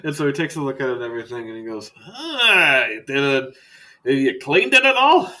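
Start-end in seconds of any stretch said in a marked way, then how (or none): 2.1-5.3 high, loud, halting dismay; recoil, then ask in a loud rising voice; appalled doctor. Acted. Doctor checking a dirty wound, appalled.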